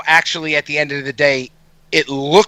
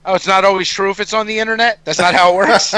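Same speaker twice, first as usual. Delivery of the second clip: fast, dry mock surprise; sarcastic; 3 semitones higher, faster than usual. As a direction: feign shock, tongue in cheek. Mock disbelief about internet truth.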